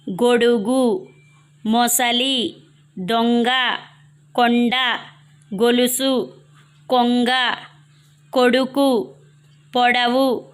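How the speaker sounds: short round "o" in the first syllable of "గొడుగు", "మొసలి"; separate, careful words, keep the first "o" short as in "కొండ"; o-sound demonstration. Shown as a demonstration. Teacher showing pupils words with ఒత్వం, careful word-by-word demonstration. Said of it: "మొదటి అక్షరాన్ని ఓ ధ్వనితో పలకాలన్నమాట".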